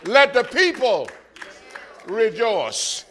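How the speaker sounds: loud high praise that fades on rejoice; shouted praise fading out; shouted answer. Retold or imitated. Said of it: "I said".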